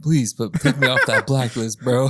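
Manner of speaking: half-laughing mock plea; mock begging. Friend pretending to beg the manager, mock begging. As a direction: plead jokingly through a chuckle. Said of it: "thinking about going back and begging".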